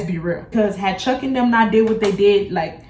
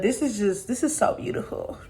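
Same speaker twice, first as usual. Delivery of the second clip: breathless whispered admiration; whispered awe; 2 semitones higher, 7 dB quieter than usual. Real, not acted. Admiring the bob to viewers, hushed whisper. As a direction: whisper it like you can't believe it.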